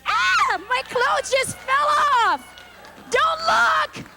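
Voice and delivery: very high, slow mock gasp; fake coy shock. Herself in the checkout lane at Jewel, mock coy and very high. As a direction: play the innocent exhibitionist. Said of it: "I'd be like".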